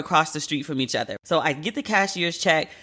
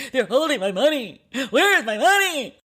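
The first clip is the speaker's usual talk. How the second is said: high, frantic replay of her panic call; retold meltdown; 7 semitones higher than usual. Calling her friend early in the morning, frantic and shrill. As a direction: replay the ugly phone meltdown. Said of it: "God, it was ugly".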